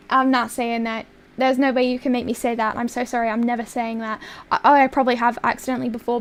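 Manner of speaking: put-on Southern US accent; Georgie Cooper accent. Shown as a demonstration. Streamer refusing chat's request, still in a Southern accent. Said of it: "Is this Georgie Cooper accent?".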